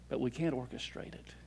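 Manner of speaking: said quietly to the congregation; hushed point. Shown as a demonstration. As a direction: draw them in with a quiet aside. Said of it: "but watch this".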